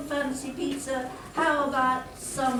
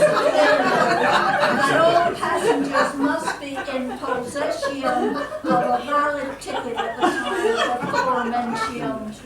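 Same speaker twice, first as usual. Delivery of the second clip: shrill camp pantomime dame; 6 dB louder than usual. Acted. Conductor reciting rules pompously.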